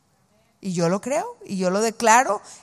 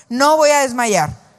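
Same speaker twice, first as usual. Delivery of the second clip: louder and slower declaration; 2 semitones higher, 6 dB louder than usual. Shown as a demonstration. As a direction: say it stronger for everyone to repeat. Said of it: "dilo más fuerte". (dilo más fuerte, con firmeza)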